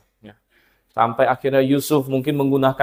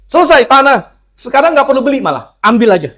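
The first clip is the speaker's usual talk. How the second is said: smug queen; 7 semitones higher, 4 dB louder than usual. Retold or imitated.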